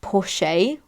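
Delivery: Porsche said in two syllables, POR-shay; "Porsche" as POR-shay, with an ending "ay"; corrected pronunciation. Retold or imitated. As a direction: sound the final e in Porsche as "shay". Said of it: "It's actually pronounced".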